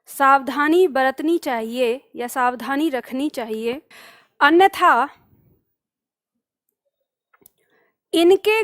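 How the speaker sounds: slow, spaced-out dictation; measured delivery with long pauses between phrases. Shown as a demonstration. Teacher dictates a line to copy, slow dictation.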